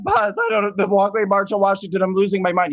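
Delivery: hammed-up high-pitched fretting; retold freak-out. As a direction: imitate yourself losing it, in a high frantic plea. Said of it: "talked me off the ledge".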